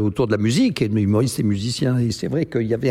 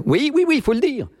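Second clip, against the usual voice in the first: eager insistence; 12 semitones higher, faster than usual. Real, not acted. Insistance enjouée.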